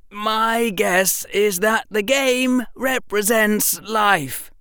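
Harry's voice. A narrator's reading. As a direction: offer the guess carefully, slowly. Harry's final guess.

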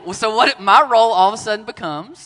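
laughing while talking; words through real laughter. Real, not acted.

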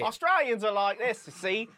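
high, loud teasing mimicry; exaggerated mock voice of the co-host; mocking co-host impression. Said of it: "I don't like the impression of me".

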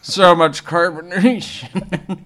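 high, slow whine; whiny complaining voice. Pretend. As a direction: groan it out like a bloated kid. Continues the whiny stomachache bit.

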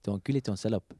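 hammy French insults; French accent. Pretend. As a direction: play up a fake French accent.

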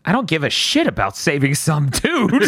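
emphatic mock defiance, unhurried; defiant quote. Denji answering the bat's thrown car, defiant quote. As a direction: declare it as Denji, landing on the last word. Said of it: "And Denji's like".

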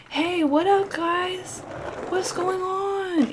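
put-on a nervous kid trying to sound cool; eager greeting. Dion greets the cool kids.

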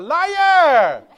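high, drawn-out mock screech; very loud comic accusation, falling at the end; movie wife's yell. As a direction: shriek it as an outraged wife, hammed up. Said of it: "his wife runs out and goes".

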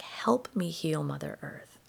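whispered prayer. Retold or imitated. Quiet prayer while walking.

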